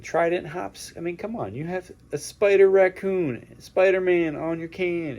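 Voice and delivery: high, loud, worked-up rant at Marvel; hammed-up indignant complaining; mock outrage. Mock rant at Marvel about can.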